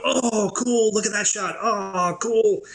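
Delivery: high mock oohing and aahing; imitating truck crew. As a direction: mimic an impressed crew, pitched well up. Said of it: "you hear everyone in the truck go".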